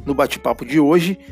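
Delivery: normal talking voice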